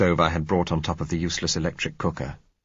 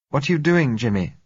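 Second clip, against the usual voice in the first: put-on high, louder questioning girl's voice; uneasy young girl; 8 semitones higher, 4 dB louder than usual. A narrator's reading. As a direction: ask Jimmy anxiously, pitched high.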